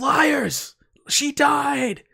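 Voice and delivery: shrieking, very high, shrill scream. Game master voicing a woman who won't listen to the players, screaming. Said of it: "And she's just screaming".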